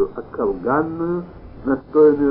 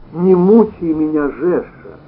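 pleading; 4 semitones higher, 8 dB louder, slower than usual. A narrator's reading. Wife pleading with husband.

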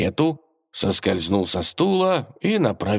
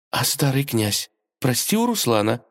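ordinary delivery, nothing marked

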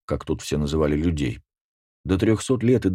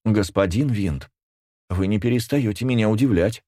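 chirping princess; 4 semitones higher than usual. Acted. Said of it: "прощебетала принцесса".

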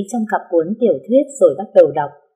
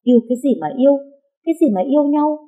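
indignant denial; 8 semitones higher, faster than usual. Acted. Sam protests to An that she isn't dating, indignant. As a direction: shoot the idea down hard. Denying a rumoured romance.

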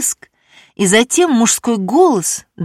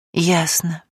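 quiet, defeated single word; a hint of a broken voice; crushed; 3 dB quieter than usual. A narrator's reading. Betrayed wife answering her friend, quietly crushed. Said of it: "убито проговорила Люська".

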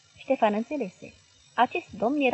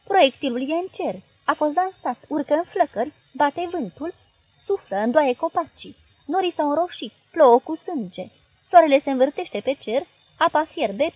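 terrified crying out; 5 semitones higher, 6 dB louder than usual. Acted. Girl shouts catastrophic vision.

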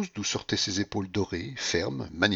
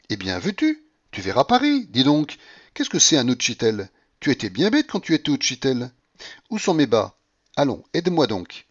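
higher, louder teasing Blanche; flirtatious, rising to squeals; playful coquette; 5 semitones higher, 5 dB louder than usual. Acted. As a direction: coax him over, giggly and bold. Blanche voiced by reader.

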